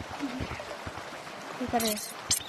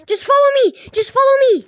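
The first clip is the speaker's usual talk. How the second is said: urgent shout; 5 semitones higher, 3 dB louder, faster than usual. Real, not acted. Fleeing the ghost.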